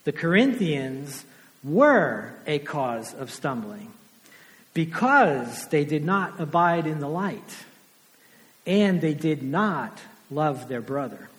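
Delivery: slow, weighing each phrase; slow and deliberate. Shown as a demonstration. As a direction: spell it out slowly for the flock. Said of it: "say it one more time in the negative".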